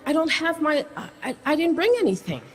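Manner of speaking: high-pitched panicked pleading; hysterical panic. Retold or imitated. Pleading with the airline agent in hysterical panic. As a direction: beg in rising panic, words tumbling. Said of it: "I start getting hysterical".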